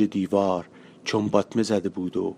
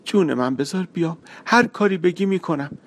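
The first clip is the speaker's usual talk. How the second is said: gentle, begging lines; girl softly begging the boy to take her; soft pleading; 8 semitones higher than usual. Acted.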